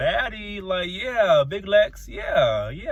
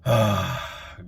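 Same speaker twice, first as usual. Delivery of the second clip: exasperated sigh; 8 semitones lower than usual. Real, not acted. Fed up with cast member.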